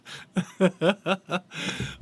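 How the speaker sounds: helpless burst of laughter; real laugh. Real, not acted. Fan laughing at a baffling referee decision, helpless laughter. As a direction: crack up completely. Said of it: "I gotta laugh".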